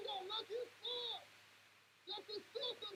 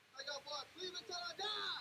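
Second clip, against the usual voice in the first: shout; faster than usual. Real, not acted. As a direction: belt out team loyalty. Fan yelling after team loss.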